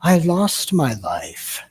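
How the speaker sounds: Eckhart Tolle imitation. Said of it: "you know, that accent, the way he talks".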